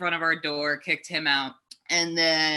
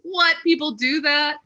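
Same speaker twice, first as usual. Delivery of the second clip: put-on shocked child; 10 semitones higher than usual. Child self to herself about men at home, amazed high disbelief. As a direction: play your baffled little self, amazed.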